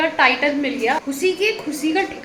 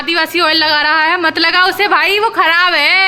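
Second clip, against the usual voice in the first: louder mock-wail about lost hair; half-joking loud complaint; 2 semitones higher, 5 dB louder than usual. Real, not acted. Sister loudly warning brother off hair oil, mock outrage. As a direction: playfully warn him off that oil.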